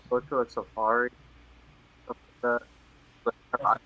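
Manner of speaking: glitchy breaking-up call audio; call dropping out. Real, not acted. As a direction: voice cutting in and out on a call. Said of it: "you're glitching right now".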